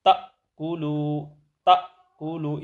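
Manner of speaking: تَأْكُلُوا with a sharp catch on the أ; tajweed hamza demo; jerked hamza. Shown as a demonstration. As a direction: stop the breath on the hamza in تَأْكُلُوا. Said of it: "اس کو جھٹکے سے پڑھیں گے".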